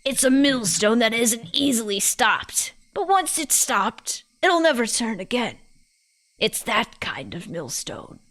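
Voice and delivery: put-on British old lady making her point; old woman's weighty pronouncement; old person, British. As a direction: voice a British granny, ending on a solemn note. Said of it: "all my old people voices turn British".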